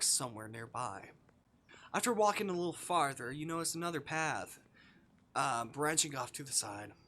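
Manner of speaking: calm storybook read of the game text; game narration. Acted. Streamer reading visual novel text to chat, calm narration. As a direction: narrate the scene evenly to the viewers.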